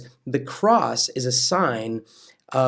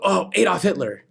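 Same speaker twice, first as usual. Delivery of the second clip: mock cry; 5 semitones higher than usual. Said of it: "kick it and go".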